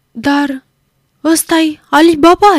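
high, bright delighted cry of recognition; enthusiastic exclamation. A narrator's reading. Old Scrooge recognising a childhood storybook hero, excited. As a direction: burst out with childlike joy. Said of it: "exclamă entuziasma Scrooge".

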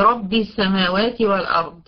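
thick, full R in رب; heavy ra. Shown as a demonstration. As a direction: say رب with the R made heavy. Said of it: "هنا را فتحة".

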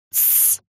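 soft unvoiced shush; hushing hiss. A narrator's reading. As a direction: hush the boy sharply. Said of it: "зашипела я на него".

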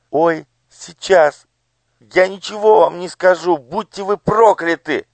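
high, pained defiance; a child refusing through pain; defiant curse. Acted. Elo defiant. (дерзкое проклятие)

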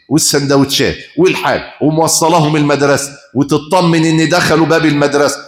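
usual speaking voice

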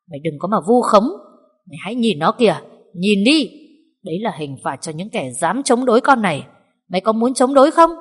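threatening, building to a loud snarl; menacing. Acted. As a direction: crush her with fear. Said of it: "hung thần".

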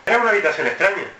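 tono diferente. Shown as a demonstration. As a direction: lift the line a little, playing with it. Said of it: "una frase cada uno en un tono diferente". (tono algo más agudo y vivo)

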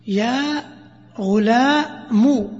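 غلام ending in a drawn-out u, very slow; ghulamu with u. Shown as a demonstration. Teacher demonstrating the weak form with a final u. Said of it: "ضم".

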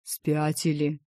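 mock-tender dragon question; mildly affectionate tone; tender asking. A narrator's reading. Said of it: "ласково так спросил дракон".

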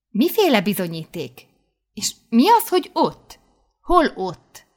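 high, incredulous questions; puzzled questioning. A narrator's reading. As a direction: press her for answers, baffled. (hitetlenkedő, magas hangú faggatás)

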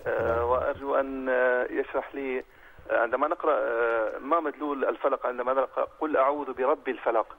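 caller on a phone line; over the phone. Real, not acted. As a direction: telephone audio. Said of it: "معنا اتصال هاتفي".

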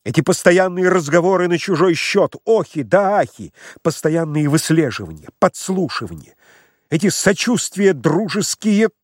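выше и громче, с надрывом; кричит, задыхаясь от волнения; истеричный крик. Acted. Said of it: "крикнул Лаевский, шатаясь от волнения".

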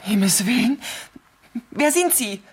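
she's terrified, trying to be heard; frightened call. Acted. Terrified woman calls into phone.

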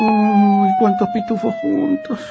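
high, squeaky panicked cry; a spooked comic actor spotting the police; alarmed. Acted. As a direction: yelp it out in alarm.

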